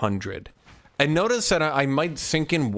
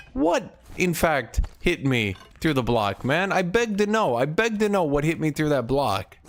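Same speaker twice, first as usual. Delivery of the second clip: raging gamer; 4 semitones higher than usual. Real, not acted. Mock formal frustrated complaint.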